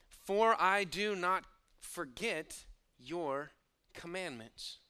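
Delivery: earnest quote. Shown as a demonstration. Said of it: "this believer voices his personal commitment".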